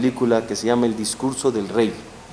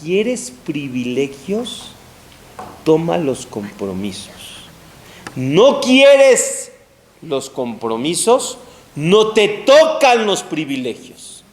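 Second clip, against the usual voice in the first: Jacob lecturing; slower than usual. Retold or imitated. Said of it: "Jacob le dice a Esav".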